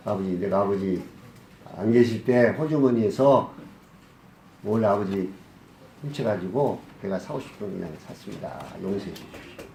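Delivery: low, soft, hint of tearfulness; mild tearful confession. Son confessing stolen money to his father, mildly tearful. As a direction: confess softly, as if close to tears. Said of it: "울먹이는 그런 목소리로".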